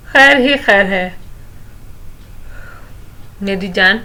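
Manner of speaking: hearty, affectionate reassurance to a daughter; father cheerfully soothing his daughter. A narrator's reading. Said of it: "بڑی خوش دلی سے کہا".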